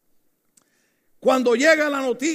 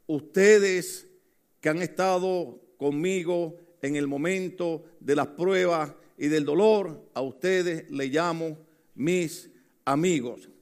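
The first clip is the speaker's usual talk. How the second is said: slow, lower, gentle voice; tender words of Jesus; 4 semitones lower than usual. Retold or imitated. Jesus tenderly calling his loyal disciples friends, slow and low. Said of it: "Y él dijo".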